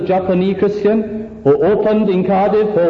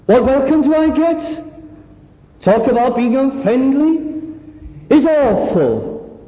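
higher-pitched whining moan; complaining visitor; 6 semitones higher than usual. Acted. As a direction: grumble about every bad welcome like a sulking guest. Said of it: "And he puts it like this".

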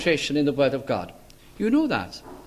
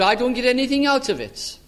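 higher-pitched imitation of a grumbler; acted grumble, pitched up; mock complaining attitude; 6 semitones higher than usual. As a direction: put on a mild whine of complaint. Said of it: "do you read it with this attitude".

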